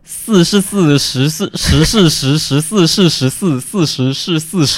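十四是十 fluent and proud; tongue twister show-off. Shown as a demonstration. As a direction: rattle off 四十四 with a clean s. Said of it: "我给你表演一个我擅长的".

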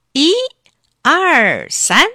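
loud, drawn-out count before a heave; storyteller's big one-two-three; effortful count. A narrator's reading. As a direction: count out the pull with force. Dentist counting before each pull.

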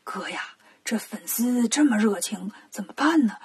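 starts in a low whisper, rises to a soft murmur; hushed aside. Acted. 沙僧小声对孙悟空说, hushed. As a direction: whisper the first words, then stay discreet. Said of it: "小声对孙悟空说".

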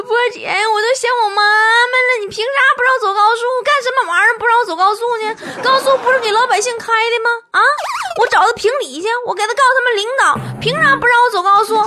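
high, whiny complaint; crying Tuotuo. Retold or imitated. Tuotuo wailing to sister Bo about the highway, high and whiny. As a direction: wail about not being allowed on the highway. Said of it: "坨坨就接着哭".

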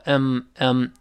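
"嗯" for "I'm", lips closed on m; weak form I'm. Shown as a demonstration. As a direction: hum "嗯" as a reduced "I'm". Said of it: "双唇闭合就好了". (双唇闭合读"嗯")

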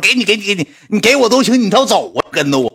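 high flustered pleading. Retold or imitated. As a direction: hurry to hand it over. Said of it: "我说".

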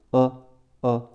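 "呃" as a held dark L, tongue tip on the tooth ridge. Shown as a demonstration. Teacher demonstrates final L, "呃" with the tongue kept up. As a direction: hold back the L so it comes out as "呃". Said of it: "舌尖点到上齿根，不分开，想发了".

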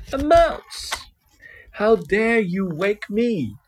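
roaring. A narrator's reading. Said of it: "Lion roared".

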